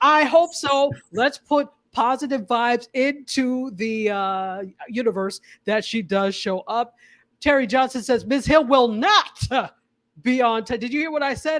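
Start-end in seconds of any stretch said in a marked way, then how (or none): 8.3-10.8 preacher-style cadence and delivery. Host reading a viewer's comment aloud, Pentecostal preacher cadence. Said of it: "I said that with the the Pentecostal".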